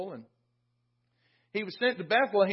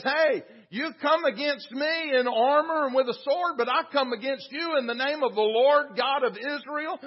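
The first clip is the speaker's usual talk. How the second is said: raised, higher voice, mildly acted defiance; bold challenge; 3 semitones higher than usual. Young shepherd challenges the giant, a mildly acted bold call. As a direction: call up boldly at a towering enemy.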